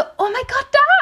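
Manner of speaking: mock sudden cry of fright, very high, loud shriek. Retelling seeing two lizards on someone, retelling a loud scream. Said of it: "ich habe so richtig laut aufgeschrien".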